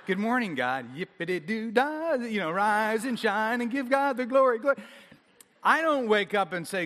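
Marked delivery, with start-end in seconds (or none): 0.1-0.9 laughing, bouncy good morning; sunny morning person, laughing; chipper morning greeting. Retold or imitated. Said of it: "'cause you're like". 0.9-4.8 higher, laughing sing-song mockery of a cheery riser; bubbly morning person, played for laughs; mock chipper morning person. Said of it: "'cause you're like".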